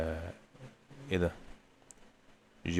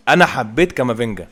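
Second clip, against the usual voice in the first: excited praise; 6 dB louder than usual. Real, not acted. Gamer repeating praise, louder.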